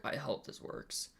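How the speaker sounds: whispered under his breath, slow; hopeful whisper. Real, not acted. Streamer whispering to himself while testing the capture. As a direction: whisper it to yourself, half hoping. Checking if screen capture works.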